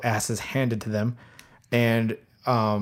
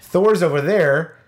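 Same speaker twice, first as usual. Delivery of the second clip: stunned disbelief; slower than usual. Retold or imitated. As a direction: reenact the shock of seeing the hammer fly in. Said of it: "And you're like".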